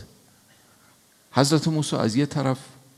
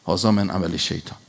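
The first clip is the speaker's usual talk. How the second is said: whispered repeat of هذا من عمل شیطان, unvoiced and hushed; preacher whispering the Quranic line back to the congregation; 4 semitones lower than usual. Shown as a demonstration. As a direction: breathe the verse out as a hushed echo.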